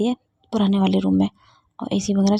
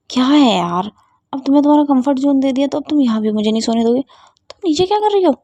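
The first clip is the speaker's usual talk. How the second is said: annoyed snapping; 4 semitones higher, 4 dB louder, faster than usual. Acted. Ruhi annoyed at being kicked.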